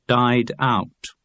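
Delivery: neutral dictionary recording read; uninflected headword into a microphone; absolutely straight. A narrator's reading. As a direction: say the word with no vocal colouring. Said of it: "have to be spoken absolutely straight".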